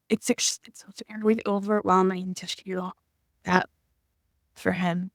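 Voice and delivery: whispered, choked with feeling; barely able to get the words out; real emotion, whispered; overwhelmed whisper. Real, not acted. Overcome describing love for dad.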